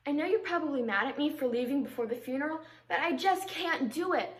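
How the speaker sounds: understated, earnest stage monologue; dramatic monologue. Acted. Confessing to someone mad about leaving before the funeral, earnest monologue. Performs a monologue after introduction.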